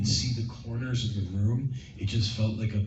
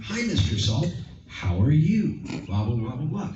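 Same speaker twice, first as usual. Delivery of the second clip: higher, louder hammed-up hello; fake overacted greeting; 7 semitones higher, 4 dB louder than usual. Shown as a demonstration. Host showing the wrong way to greet Mister Salt, higher and louder. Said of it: "It would look really fake".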